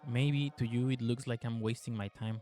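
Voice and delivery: even, measured game narration; story narration. A narrator's reading. Player reading the game's story to viewers, measured narration. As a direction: read the tale out evenly, restrained.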